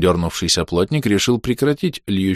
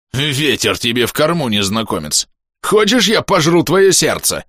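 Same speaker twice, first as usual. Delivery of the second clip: menacing ghost; 6 semitones higher, 4 dB louder than usual. Acted. Ghost threatens stranger.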